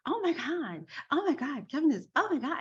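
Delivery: high, gushing fan squeal imitation; excited fangirls. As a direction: imitate two gushing fans. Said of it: "they were so excited about him".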